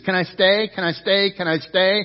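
insistent repeated plea, lightly acted; mildly acted begging. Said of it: "He's begging Jesus".

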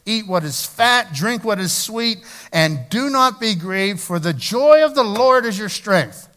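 rally the crowd to celebrate; excited celebration. Acted. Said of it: "he was like".

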